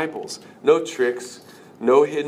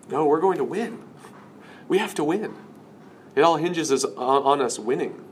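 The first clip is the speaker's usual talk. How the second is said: higher-pitched acted objection; insistent Peter; 4 semitones higher than usual. Peter refusing Jesus' talk of dying, acted insistence. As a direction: insist on it, voice lifting.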